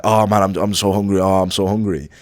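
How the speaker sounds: hammed-up whine about being hungry; mock whiny hungry complainer. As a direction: imitate someone moaning about hunger. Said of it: "people who are like".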